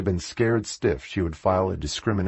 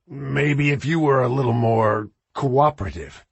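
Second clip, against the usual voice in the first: "cooperative" leaned on, loaded and higher; stress on cooperative; 6 semitones higher than usual. A narrator's reading. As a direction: hit "cooperative" with a leer. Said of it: "with emphasis on the last word".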